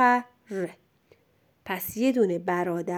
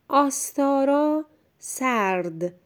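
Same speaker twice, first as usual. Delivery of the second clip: آستارا read whole, higher pitch; clear first reading; 5 semitones higher than usual. Shown as a demonstration. Teacher introduces the second sentence to a pupil, clear and higher.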